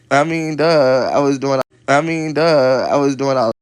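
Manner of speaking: shouting in frustration; slow and loud, fed up; loud exasperated. Real, not acted.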